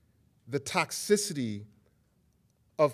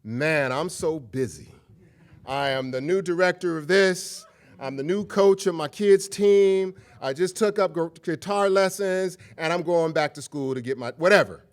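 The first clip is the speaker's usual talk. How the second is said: louder, boastful list of tasks; bragging busy friend; 3 semitones higher, 6 dB louder than usual. Retold or imitated. Rudy bragging to a friend about his busy schedule, loud and boastful. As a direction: brag about being busy. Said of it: "Rudy might say".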